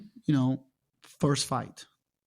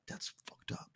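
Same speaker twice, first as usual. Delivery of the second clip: hushed, bitter whisper to himself; whispered inner thought; 15 dB quieter than usual. Retold or imitated. Athlete recalling self-pity after injury, whispering. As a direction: whisper it like a private complaint.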